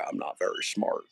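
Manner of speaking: lightly mimicked dim-witted man; a hint of a not-very-smart character; Pedro. Streamer repeats his impression for viewers, lightly voiced. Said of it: "That's Pedro".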